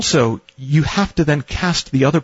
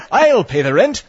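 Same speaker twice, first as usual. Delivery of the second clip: higher, hammy heroic declaration; melodrama hero; 10 semitones higher than usual. Retold or imitated. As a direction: proclaim it like a stage hero. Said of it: "it's an old melodrama".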